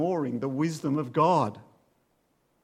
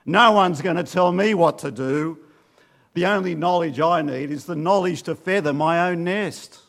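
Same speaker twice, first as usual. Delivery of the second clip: a louder, stubborn fool's retort; defiant fool; 6 dB louder than usual. Retold or imitated. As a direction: play the hard-hearted fool who won't be told. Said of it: "as a fool with a hardened heart".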